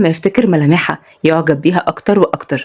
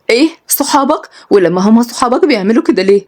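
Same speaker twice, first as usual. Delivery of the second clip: put-on higher, surprised young woman; lightly voiced, higher disbelief; young woman Rival; 4 semitones higher than usual.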